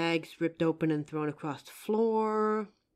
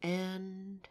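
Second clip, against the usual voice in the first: soft, hushed spell-casting chant; hushed séance chant with a measured rhyming cadence; quiet ritual incantation; 3 semitones lower, 7 dB quieter than usual. Acted. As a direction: call the spirit in low and quiet, like a rite. Performs a ritual summoning incantation.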